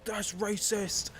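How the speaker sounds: high, drawn-out mock outrage; mock accusation. Mimicking someone on a jazz page, mock accusing. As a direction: imitate an indignant objector, stretching the words. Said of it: "someone would be like".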